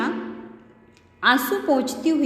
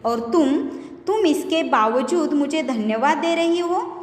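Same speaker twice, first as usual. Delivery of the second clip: angry near-shout; 2 semitones higher than usual. Retold or imitated. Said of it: "ऊंचे स्वर में लगभग चिल्लाते हुए".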